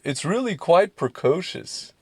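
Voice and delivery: prim, slow Mary Poppins imitation; a light prissy nanny lilt, slowed down. Senator quoting Mary Poppins, in prim nanny voice. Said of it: "You know, from Mary Poppins?".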